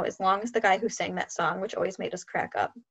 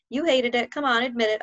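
higher, louder playful needling; teasing; 3 semitones higher, 4 dB louder than usual. Acted. Son teasing his dad about the braid, playful. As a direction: poke fun at Dad. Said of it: "I teased".

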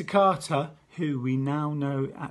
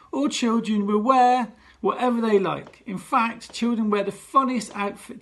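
showbiz announcement; 4 semitones higher, 4 dB louder than usual. Acted.

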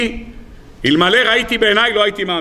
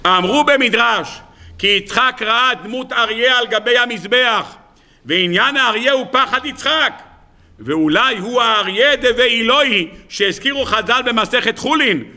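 measured reading aloud, pitch slightly raised; declaimed text reading; 4 semitones higher than usual. Acted. Teacher reading Rabbeinu Bachye from the book, declamatory. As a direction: declaim the midrash to the room.

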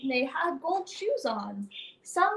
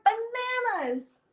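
slow, higher drawn-out call; shouted out; 5 semitones higher, slower than usual. Acted. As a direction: call out the magic word. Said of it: "I shouted out one word".

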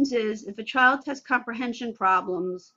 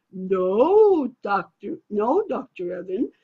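put-on child correcting; 4 semitones lower, slower than usual. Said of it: "the child says back to me".

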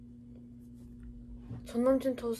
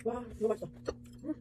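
talking while chewing; muffled words between bites; mouth full of pastry; 8 dB quieter, much faster than usual. Real, not acted. Seen 2: Just bit the pastry; lips closed, chewing motion while speaking.

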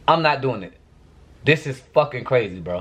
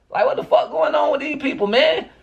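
higher, fed-up rant; exasperated outburst; 12 semitones higher than usual. Real, not acted. Venting to viewers about the people at home, exasperated. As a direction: throw up your hands at these people.

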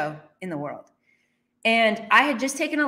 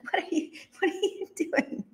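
incredulous laugh; 9 semitones higher, 5 dB quieter than usual. Retold or imitated.

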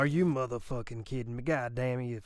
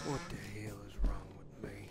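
whispering; 3 semitones lower, 5 dB quieter, faster than usual. Real, not acted. Embarrassed aside after scream.

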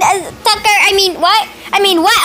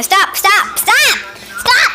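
rising protest; 2 semitones higher, slower than usual. Real, not acted. Puppy biting the camera, escalating.

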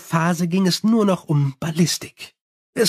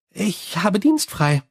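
higher, chatty vampire voice; Sally complaining about her bats, higher and chatty; 3 semitones higher, slower than usual. Acted. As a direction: rattle on cheerfully like a gossiping vampire. Sally answers Angua.

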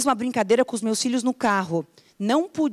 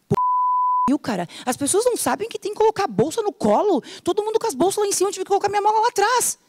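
higher, fast grumbling about the bags; mock complaining; 9 semitones higher, faster than usual. Passenger grumbling about the overhead bins, fast and higher. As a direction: huff at the other passengers.

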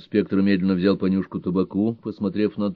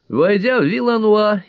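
ordinary delivery, nothing marked

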